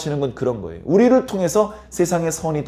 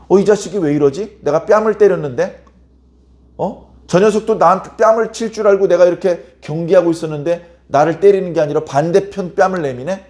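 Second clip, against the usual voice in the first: acted puzzlement, a little higher and louder; baffled attacker; 3 semitones higher, 4 dB louder than usual. Attacker wondering why his victim offers the other cheek, acted bafflement. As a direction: puzzle aloud as the baffled bad guy.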